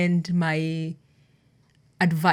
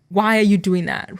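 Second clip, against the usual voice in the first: accusing; 5 dB louder than usual. Retold or imitated. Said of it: "more like".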